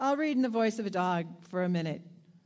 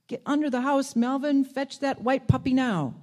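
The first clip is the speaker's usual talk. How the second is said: calling out; 5 semitones higher, 5 dB louder than usual. Acted. Someone calling to Melvin.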